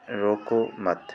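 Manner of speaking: रोको set apart slowly before मत; a drawn-out, separated रोको ... मत; pause after रोको. Shown as a demonstration. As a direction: say रोको, break, then मत. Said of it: "भाव पकड़ लो".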